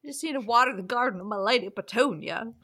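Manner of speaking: lightly hammed-up innuendo; a touch of a smitten lover; mock seductive impression. Friend quoting the book's maritime lover. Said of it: "we'll leave our impressions there".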